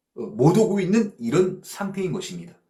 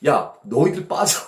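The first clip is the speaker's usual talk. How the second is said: Jesus overruling; 4 dB louder than usual. Acted. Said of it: "예수님께서 지금 어떻게 판정을 내려주시는 거예요".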